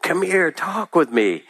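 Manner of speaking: put-on high, friendly old man; easy vernacular. Old man beckoning the drunk, high and friendly. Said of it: "in an easy vernacular".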